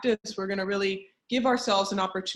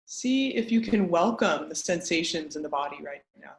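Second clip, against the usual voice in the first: measured meditation guide with long pauses; guided meditation. Acted. Teacher guiding an online group through a grounding practice, guided meditation. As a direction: lead them gently inward, pausing between instructions.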